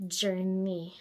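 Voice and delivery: "journey" set apart in mock imitation; mocking buzzword. Vlogger mimics people on their journey online, mockingly. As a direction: put "journey" in audible air quotes. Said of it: "it's people who are on their".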